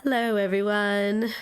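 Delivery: husky sick voice, rough from a cold. Real, not acted. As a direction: greet them with a husky, sick voice. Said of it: "Geordie's sounding nice and husky".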